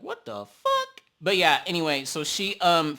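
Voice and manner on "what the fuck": genuinely baffled; incredulous. Real, not acted. Staring at the bumps on her lip, shocked. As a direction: pitch leaps way up in disbelief.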